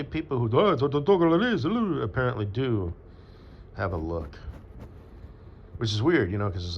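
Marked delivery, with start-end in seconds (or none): 0.6-1.6 high, slow, put-on silly voice; put-on voice demo. Shown as a demonstration. Showing how people with that look talk, high and slow. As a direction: show the voice of someone who has that look. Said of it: "I bet you that person talks like this".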